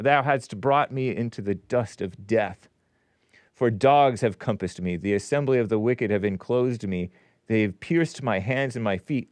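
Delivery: measured King James recitation; solemn scripture reading. Acted. Host reading Psalm twenty-two to listeners, measured recitation. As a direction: read it out deliberately.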